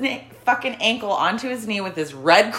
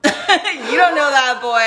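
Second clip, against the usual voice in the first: slow, louder, scolding the angry man; louder retold scolding; 4 semitones higher, 4 dB louder than usual. Defending the kid to the man on her bus, slow, louder and firm. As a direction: lean on it, protective and firm.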